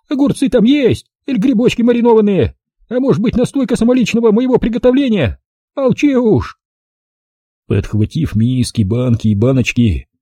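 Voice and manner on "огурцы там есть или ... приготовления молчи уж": put-on higher, brisk old-woman voice; old village granny. Old granny greeting the city visitor, high old-woman voice. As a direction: voice the feisty village grandmother.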